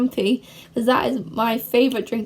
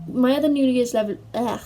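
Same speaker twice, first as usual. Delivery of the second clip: tongue-tied. Real, not acted. Vlogger botches her New Year's resolution answer, tongue-tied. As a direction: stumble on "level" and give up with "ugh". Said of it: "can't speak now".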